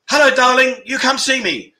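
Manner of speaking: lightly voiced sultry come-on; femme fatale.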